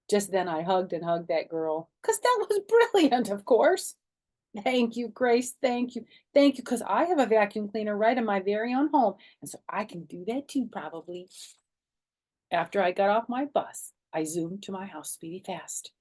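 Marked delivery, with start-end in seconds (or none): 2.0-4.0 laughing. A narrator's reading. 4.6-11.3 grateful gushing. A narrator's reading. Child thanks friend gratefully.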